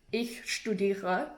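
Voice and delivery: "studiere" swallowed at the back of the throat; slow, throaty German "Ich studiere"; swallowed word. Shown as a demonstration. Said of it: "swallowing the word studiere".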